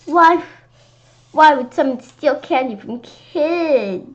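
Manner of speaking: outraged cry. Acted. Outraged at candy thief.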